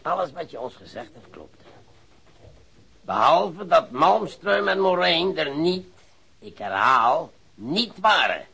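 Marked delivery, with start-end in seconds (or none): 3.0-8.5 slow, loud, both "niet" hammered; stress on niet. Acted. Detective correcting the suspect, loud and slow on "niet". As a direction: lean hard on each "niet".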